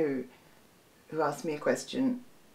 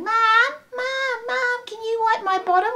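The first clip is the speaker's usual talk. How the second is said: put-on high, loud child's whine, much higher pitch; child calling mum; 5 dB louder than usual. Toddler calling mum mid phone deal, high and loud. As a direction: kid yelling for mum from the toilet.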